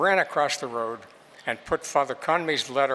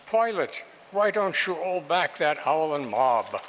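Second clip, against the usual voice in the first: a droll Cockney preacher's call, pitched up at the start. Acted. Jesuit preacher mocking the mob in a Cockney accent. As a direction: toss it off in a cheeky Cockney accent. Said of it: "droll eyes and cockney voice".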